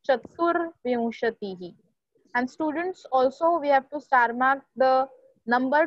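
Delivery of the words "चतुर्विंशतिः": चतुर्विंशतिः with the "r" sounded just before "vim". Shown as a demonstration. Teacher modelling twenty-four, "r" sounded before "v". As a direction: say चतुर्विंशतिः as "cha-tur-vim-sha-ti-hi". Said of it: "we have to put ref on व".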